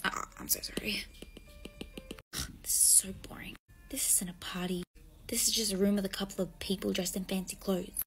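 soft bored murmur; bored whisper. Acted. Bored girl whispering complaints about the dull party. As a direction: sigh it under your breath.

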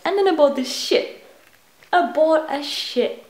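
slipping into a light British accent. Real, not acted. Vlogger slips into British showing purchases, light British accent. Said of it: "Why am I talking British".

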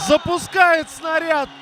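excited commentary. Real, not acted. Shot on goal.

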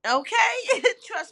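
high laughing okay. Real, not acted. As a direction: laugh it out, bright. Laughing agreement.

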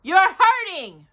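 high, complaining bear voice; hurt Pooh. A narrator's reading. Pooh being pulled.

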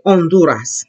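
"Honduras" starting straight on O; silent H. Shown as a demonstration. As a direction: say "Honduras" as on-DOO-ras, no H. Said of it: "H is always what? Silent".

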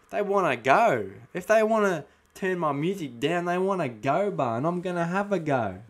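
challenging, picking a fight; tough threat. Acted. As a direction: dare them to start. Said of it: "repeats line differently".

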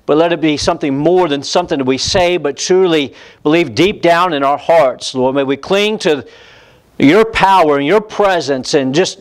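preacher praying aloud before the sermon; prayer. Real, not acted. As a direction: pray it sincerely to the Lord. Leads congregation in prayer.

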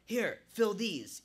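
slow, loud barked command; barked order. A narrator's reading. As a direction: bark it out slowly. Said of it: "he barked".

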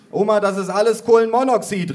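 high, loud warning call; cousin calling out. A narrator's reading. Cousin warns grandma about the smoke, high calling. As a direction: raise the voice to warn grandma. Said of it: "rief meine Cousine".

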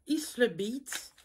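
slow English name in a French accent; careful English, real French accent. Real, not acted. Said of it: "Avec mon accent, euh, anglais, euh, magnifique".

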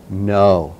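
know set apart after a pause, falling; pause, then land hard on know; know held alone, low and final; stress on know. Shown as a demonstration. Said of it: "So emphasize the word know".

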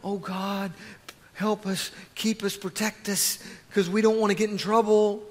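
small, soft imitation of a fearful prayer; hushed mock pleading; mock timid prayer. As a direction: plead meekly, mocking the timid. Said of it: "I don't see them going".

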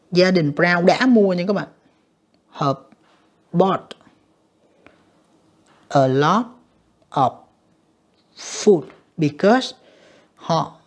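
drawn out word by word while writing; slow dictation. Shown as a demonstration. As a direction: spell the sentence out slowly for the board. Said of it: "mình sẽ phải viết là như thế này".

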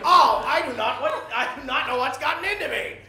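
laughing apology. Real, not acted.

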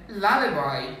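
"lullaby" as LAH-luh-bye; correct pronunciation. Shown as a demonstration. Diction teacher modelling lullaby for the class, careful pronunciation. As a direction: open first vowel in "lullaby", never loo. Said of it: "you say lullaby".

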